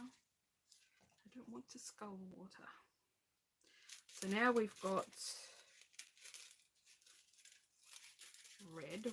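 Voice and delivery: talking through hiccups; words broken by hiccups. Real, not acted. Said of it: "Now I've got the hiccups".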